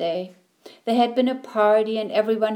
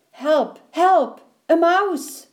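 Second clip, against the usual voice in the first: rising frantic cries, louder each time; screaming for help; 8 semitones higher, 6 dB louder, slower than usual. A narrator's reading. Annie's household screaming at a mouse, panicked loud cries. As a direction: shriek it out at the sight of a mouse.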